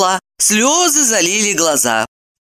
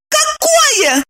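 «Какое?» shouted much higher with a falling end; mock shout. A narrator's reading. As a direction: cry out «Какое?» high, falling. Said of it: "уже закричала она".

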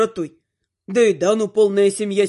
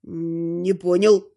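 mewed; 2 semitones lower, much slower than usual. Acted. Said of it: "мявкнул почти бывший благоверный".

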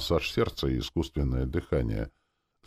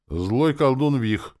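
slow, higher, spelled-out answer; patient; 9 semitones higher, 6 dB louder, slower than usual. A narrator's reading. Elf answering soldier's question, patient. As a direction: explain it patiently, word by word. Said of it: "терпеливо ответил Чивагор".

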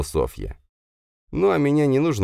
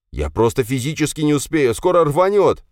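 doomed sigh; 10 semitones higher, 5 dB louder than usual. Acted. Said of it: "вздохнул Рома как-то обречённо".

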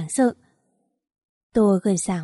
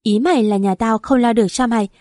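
louder, bitter comeback; angry retort; 4 dB louder than usual. Acted. Mother-in-law scolding her daughter-in-law, angry and louder. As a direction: hit back with scorn.

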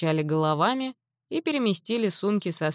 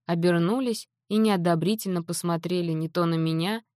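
usual speaking voice

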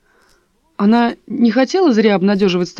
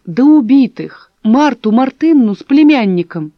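louder, exasperated outburst; 3 semitones higher, 7 dB louder than usual. A narrator's reading. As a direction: lose patience and shout it. Dasha loses patience.

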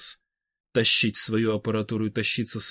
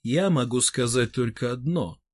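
indifferent. Acted. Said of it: "равнодушно сообщил".

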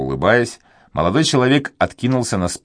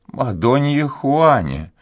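put-on slow, higher old woman's voice echoing the name; old duenna's echo; 9 semitones higher, slower than usual. A narrator's reading. Duenna repeats the name back to the young man, slow and high. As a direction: echo his words back as a wary old maid. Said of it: "прошептала дуэнья со вздохом".

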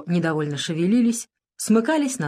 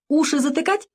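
cheerful; 9 semitones higher than usual. A narrator's reading. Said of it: "весело спросила Лена".

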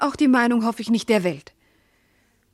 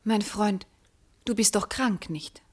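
concerned whisper; 5 dB quieter than usual. Acted. Wife gently questions confused husband.

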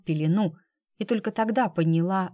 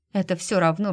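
usual speaking voice

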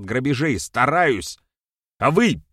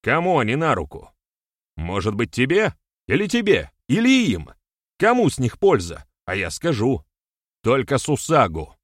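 high, loud rhetorical challenge; heated accusation; 5 semitones higher, 5 dB louder than usual. A narrator's reading. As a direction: fire questions at the listeners, voice raised. Public accusation, rhetorical questions. (обличительно, на повышенных тонах)

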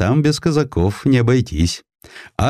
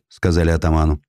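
usual speaking voice

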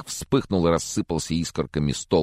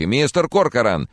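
louder, higher call; urgent call; 9 semitones higher, 5 dB louder than usual. Acted. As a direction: shout to shake him out of grief. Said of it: "уже тряс его за плечи".

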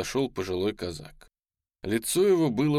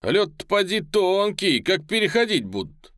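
anxious; 10 semitones higher, 5 dB louder than usual. Acted. Onlookers fret over troops crossing ice.

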